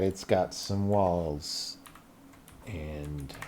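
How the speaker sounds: "It's got some walls" dropped low, soft and slow; quiet, slow. Shown as a demonstration. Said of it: "Don't you worry about that".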